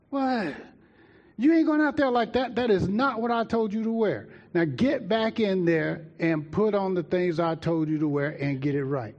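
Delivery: high, indignant mom voice; scolding mother. Retold or imitated. Mother scolds her son for his outfit, high and stern.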